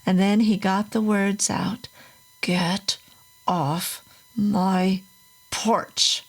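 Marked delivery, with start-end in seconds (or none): 2.4-6.2 croaked. A narrator's reading. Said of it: "He made a croaking sound".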